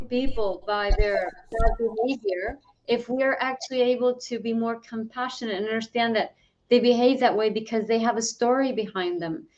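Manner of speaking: muffled, like through a hand. Real, not acted. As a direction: voice dulled by a covered mic. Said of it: "Sorry about the muffled sound there".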